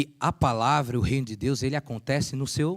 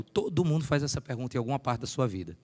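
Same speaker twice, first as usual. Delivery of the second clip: usual speaking voice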